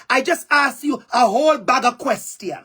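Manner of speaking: a light Jamaican patois phrasing; lightly Jamaican-flavoured delivery; Jamaican dialect. Shown as a demonstration. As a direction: say it the Jamaican way, easy and natural. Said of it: "And some parts in Jamaica, we would say".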